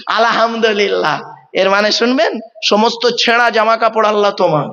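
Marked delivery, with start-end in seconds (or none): 0.1-1.2 "আলহামদুলিল্লাহ" as "alahamdolillah", with light h; common mispronunciation. Shown as a demonstration. Preacher mimicking worshippers, loose "আলহামদুলিল্লাহ" with light h. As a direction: slip an extra vowel into "আলহামদুলিল্লাহ". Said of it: "আর আমরা উচ্চারণ করি কি?".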